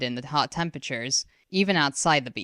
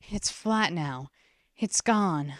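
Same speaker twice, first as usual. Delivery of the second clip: relief; 2 semitones higher, slower than usual. A narrator's reading. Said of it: "she thought in relief".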